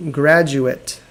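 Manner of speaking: graduate said GRAD-joo-it with a short final syllable; graduate, noun. Shown as a demonstration. Teacher showing the noun graduate to students. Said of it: "I'm gonna pronounce it correctly".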